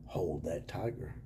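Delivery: slow spooky whisper of the chant; mock whisper. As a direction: breathe it out like a mock omen. Mocking the LSU chant.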